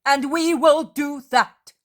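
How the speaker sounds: booming, unshakeable proclamation; thundering voice. A narrator's reading. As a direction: thunder it out with faith. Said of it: "in a thundering voice".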